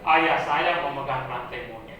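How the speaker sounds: slow example sentence with stress on ayah; demo reading. Shown as a demonstration. Preacher reads example sentence to congregation, slow demo. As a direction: read it out slowly, weight on ayah. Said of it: "Coba, coba dibaca".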